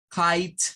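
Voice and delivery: KITE said "kait", crisp final T; isolated model of KITE; English pronunciation demo. Shown as a demonstration. Teacher joining the K and T sounds, clear demo. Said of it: "Se lee como kite".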